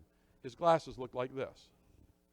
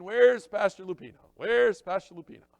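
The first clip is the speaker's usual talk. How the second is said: mock needy pastor; 3 semitones higher, 5 dB louder than usual. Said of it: "He's thinking".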